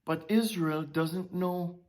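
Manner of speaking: low, soft, slow lament; God grieving. Acted. God lamenting over Israel, soft and slow. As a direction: sigh it out, slow and hushed. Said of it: "here God is saying".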